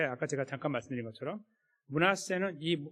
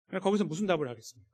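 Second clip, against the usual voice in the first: ordinary talk, nothing marked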